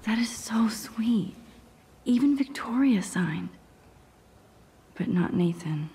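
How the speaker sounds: game character whispering. Acted. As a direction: keep it all breath, no voice.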